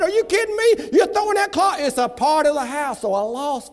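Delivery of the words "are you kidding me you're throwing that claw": mock indignant shout. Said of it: "I said".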